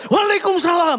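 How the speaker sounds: hearty, high, loud shout.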